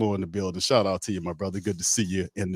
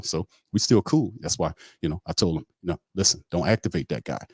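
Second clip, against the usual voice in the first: rambling guy impression. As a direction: ramble on like you'll never stop. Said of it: "that's how the guy talks".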